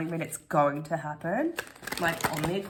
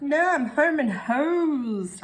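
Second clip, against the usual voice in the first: confident; 9 semitones higher, 7 dB louder, slower than usual. Retold or imitated. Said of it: "I was like".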